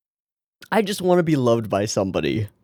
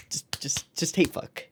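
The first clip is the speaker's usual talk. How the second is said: whispered, leaning in; hushed aside; 5 semitones higher, 8 dB quieter than usual. Real, not acted. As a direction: breathe it conspiratorially. Whispering the predicted scene.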